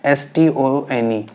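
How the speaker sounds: each letter of "एस टी ओ एन ई" said slowly and apart; teacher spells out "एस टी ओ एन ई" letter by letter for students, slowly; slow spelling out. Shown as a demonstration. Teacher spelling semitone for the class, slowly letter by letter. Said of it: "अब आएगा semitone".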